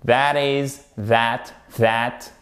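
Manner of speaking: THAT started with a voiced TH; voiced tongue-between-teeth TH on THAT; hard TH. Shown as a demonstration. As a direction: model THAT carefully with a buzzing TH. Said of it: "c'est un hard T H".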